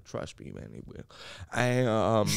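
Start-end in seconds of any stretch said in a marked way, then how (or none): 0.0-1.0 breathy whispered promise, barely voiced. Real, not acted. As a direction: lean in and whisper it like a secret. Teasing promise, drops to whisper.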